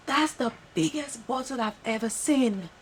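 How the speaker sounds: lightly voiced customer putting on an accent; mock forced British accent. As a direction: imitate her fake surprise in a put-on accent. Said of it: "And then she goes".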